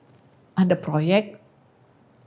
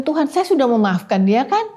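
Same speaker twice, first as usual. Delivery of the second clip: higher, questioning plea to God; retold protest; 5 semitones higher, 3 dB louder than usual. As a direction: protest mildly, pitch lifting into a question. (protes kepada Tuhan)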